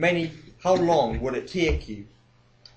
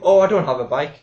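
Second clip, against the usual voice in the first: put-on louder, dithering old lady; elderly woman caller; 5 dB louder, faster than usual. Old caller telling the DJ she has no bike, dithering. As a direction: ramble on like a muddled pensioner. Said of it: "Like, uh".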